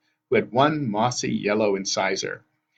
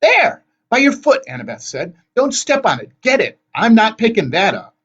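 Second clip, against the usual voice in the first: high, loud, urgent back-and-forth; frantic shouting; 13 semitones higher, 7 dB louder than usual. A narrator's reading. Frantic hunt for the eyeball.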